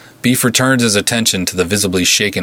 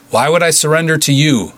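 higher, louder call across the hall; 8 semitones higher, 3 dB louder than usual. A narrator's reading. Beef calling out to the goons, loud and defiant. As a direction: challenge them from the room. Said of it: "Beef called out".

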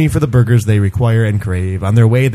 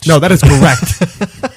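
put-on whiny child; 4 semitones higher, 4 dB louder, slower than usual. Arguing with toy.

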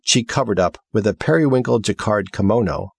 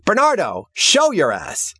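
calling out; 11 semitones higher than usual. Acted. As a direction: call for him to show up. Girl calling out.

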